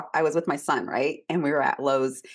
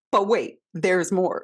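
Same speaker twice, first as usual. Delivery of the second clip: mock infomercial tease; 5 dB louder, slower than usual. Infomercial catchphrase while telling story.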